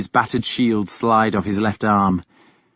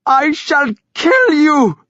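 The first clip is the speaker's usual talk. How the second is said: slow, high, loud scream; screaming threat; 5 dB louder than usual. A narrator's reading. Thyra screaming at Ragnar. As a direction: threaten him at full voice. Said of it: "she screamed at Ragnar".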